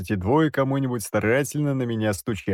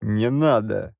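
hoarse croak; slower than usual. A narrator's reading. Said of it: "прохрипел я".

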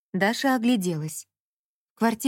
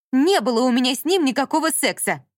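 louder, higher furious snap; angry retort; 5 semitones higher, 5 dB louder than usual. A narrator's reading. Dasha before slamming the door, furious. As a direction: fling it back and leave. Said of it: "бросила Даша и хлопнула дверью".

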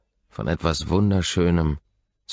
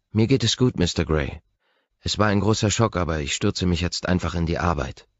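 brave face, a touch brighter than the narrator; lightly voiced housekeeper. Gail's voice held in dialogue.

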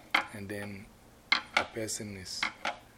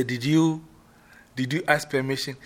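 high, loud interrogation; stern questioning; 4 semitones higher, 8 dB louder than usual. Shown as a demonstration. Queen Mother rehearsing, loudly interrogating the player. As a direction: press him for the truth.

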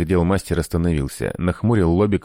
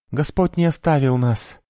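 high, exultant proclamation; jubilant; 9 semitones higher than usual. A narrator's reading. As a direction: rejoice like a zealous priest. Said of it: "возликовал инквизитор". (ликующе)

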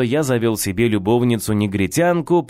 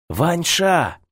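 hissing; 6 semitones higher than usual. A narrator's reading. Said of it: "зашипел материализовавшийся Одеялкин".

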